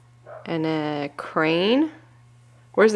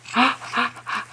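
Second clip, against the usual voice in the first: repeated breathy pig snorts; 5 semitones higher than usual. Pretend. Parent answers what piggy says, snorting. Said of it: "What does a piggy say?".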